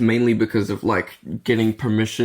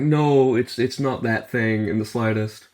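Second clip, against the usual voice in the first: retold exasperated objection, pitched up on "No"; mildly annoyed. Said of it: "annoyed 'cause I'm like".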